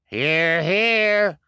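high, loud cheer. Acted. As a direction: cheer in agreement. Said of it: "several voices cried".

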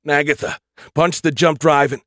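urgent shout. Acted. Urgent command in crisis.

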